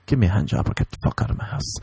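fast unvoiced rude demand; hoarse whispered mock lord. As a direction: hiss it fast like a snooty lord. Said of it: "I can be like".

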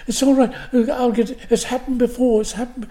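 hurried Irish reassurance, imitated; Irish accent. Woman comforting the blinded actor, imitated Irish accent. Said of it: "She had an Irish accent".

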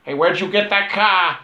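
a lightly voiced tough chop shop owner; Aurelio impression. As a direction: toss it off like a gruff garage boss. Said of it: "That's a really good impression".

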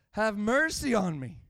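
insistent plea for mercy. Acted. Blind man refusing to be shushed, insistent cry. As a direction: call out over those hushing you. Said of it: "He cries all the louder".

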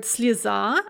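"sliza": reduced ee, then stressed a; unstressed ye as "e". Shown as a demonstration. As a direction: say "sliza" with the first vowel as ee, stress on the final a. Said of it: "ye there is pronounced as an e".

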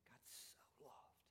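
near-whisper, very soft and low; barely voiced, letting the verse sink in; hushed. Shown as a demonstration. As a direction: drop to an awed hush. Preacher repeats verse in hush.

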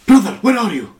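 loud, high imitation of an Arabic accent. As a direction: call out in a put-on Arabic accent. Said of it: "the Arabic accent was so great".

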